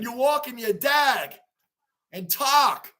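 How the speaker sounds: mock Boston vowels, "talk" as "tahk"; Boston accent. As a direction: imitate Boston, open "ah" in "walk", "dag" and "talk". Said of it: "New York accents and Boston accent".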